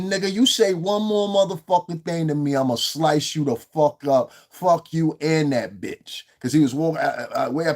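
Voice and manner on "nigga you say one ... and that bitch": mock threat. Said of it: "She said".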